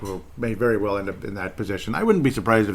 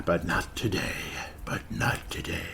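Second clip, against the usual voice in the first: hushed aside; 3 semitones lower, 7 dB quieter than usual. Real, not acted. Undercuts his own hopeful prediction.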